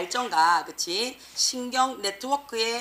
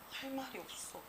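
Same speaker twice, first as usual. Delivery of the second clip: very soft, stunned murmur; mock speechless; 3 semitones higher, 17 dB quieter than usual. Teacher acting someone too startled to speak, hushed and stunned. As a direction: say it faintly, as if shock stole the words. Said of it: "너무 놀랬어".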